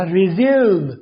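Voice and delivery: रिज्यूम said as ri-ZYOOM, firm and clear; model pronunciation. Shown as a demonstration. Teacher repeats the correct रिज्यूम for students. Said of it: "रिज्यूम नहीं कहना".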